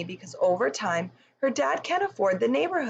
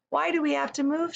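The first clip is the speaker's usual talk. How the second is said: whining; 7 semitones higher, faster than usual. Acted. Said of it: "she whines".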